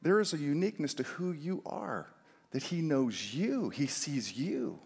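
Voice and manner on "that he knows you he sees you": 1 tender slow. Acted. Tender slowing.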